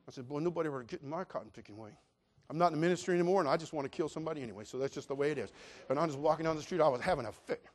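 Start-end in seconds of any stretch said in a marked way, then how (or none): 0.3-5.5 retold angry muttering. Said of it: "I was so mad".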